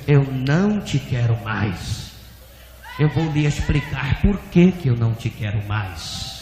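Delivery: voice of God. Retold or imitated. God explaining the rejection to the pastor, low measured voice. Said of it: "E o Senhor dizia".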